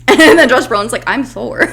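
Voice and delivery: laughing through the words; can't stop laughing while telling it; words bubbling with real laughter. Real, not acted. Laughing retelling of a joke.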